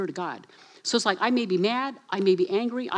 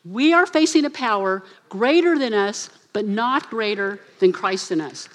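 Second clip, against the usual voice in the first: louder, proclaimed read-aloud; congregation recitation; 6 dB louder than usual. Shown as a demonstration. Pastor leading the congregation reading together, loud. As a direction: lead the room in reciting it. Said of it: "So say that with me".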